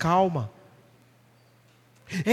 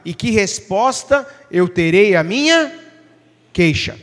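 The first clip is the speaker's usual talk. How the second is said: slow, solemn Bible reading; scripture reading; slower than usual. Acted. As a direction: read the verse slowly, weighing each phrase. Reads Habakkuk 2:1 aloud. (leitura bíblica lenta e solene)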